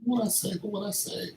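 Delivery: squeaky high-pitched voice. Pretend. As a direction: go up high and thin. Trying voices for a recording.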